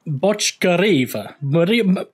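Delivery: slow name with an Italian lilt; accidental Italian accent. Real, not acted. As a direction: slip lightly into an Italian accent. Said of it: "why am I saying that in Italian".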